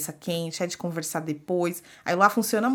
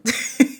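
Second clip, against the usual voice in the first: short breathy laugh; 6 dB louder than usual. Real, not acted. Laughs after the joke.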